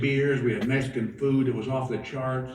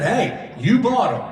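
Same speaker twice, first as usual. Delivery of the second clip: mock protest; 5 semitones higher, 4 dB louder, slower than usual. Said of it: "I said".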